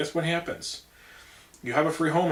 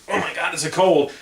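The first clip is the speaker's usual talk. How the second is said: mock Chicago accent, louder and higher; Chicago-style talk; 4 semitones higher, 7 dB louder than usual. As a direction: imitate a Chicagoan scoffing at the cold. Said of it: "appreciate me talking like this".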